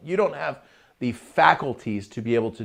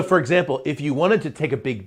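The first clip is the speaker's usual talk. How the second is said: usual speaking voice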